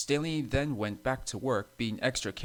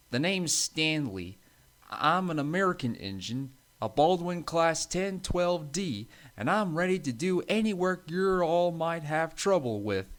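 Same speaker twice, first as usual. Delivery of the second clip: higher-voiced, confident American engine; strong American accent; 6 semitones higher than usual. A narrator's reading. Stanley introducing himself to the engines, strong American accent. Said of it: "in a strong American accent".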